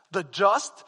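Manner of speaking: "just" punched and held apart; stress on "just". Shown as a demonstration. Pastor showing how Luther read the verse, stress on "just". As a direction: lean hard on "just". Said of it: "emphasizing just".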